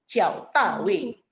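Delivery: drawn-out, separated syllables; slow model reading. Shown as a demonstration. Teacher reading Li's given name to students, slow model reading. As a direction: stretch the name out for learners to copy. Teacher reads dialogue slowly in Chinese.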